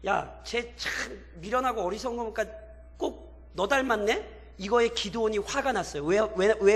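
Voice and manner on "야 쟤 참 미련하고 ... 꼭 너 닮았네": softly acted mocking jibe; sarcastic needling. Captive kings comparing Gideon to his foolish son, quietly sarcastic. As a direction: needle him quietly, drawing out the last jab. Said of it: "비꼬는 거예요".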